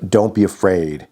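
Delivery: grandmother's directive. Retold or imitated. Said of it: "when she said to me".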